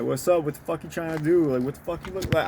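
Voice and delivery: mock angry street talk. Shown as a demonstration. Vlogger showing how he talks when mad, mock street talk. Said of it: "that ghetto talk a little bit".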